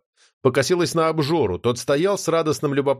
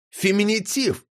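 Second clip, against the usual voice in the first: higher, spat out in a furious hiss; 8 semitones higher than usual. Acted. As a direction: hiss the word like an insult. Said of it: "яростно прошипела Нотти".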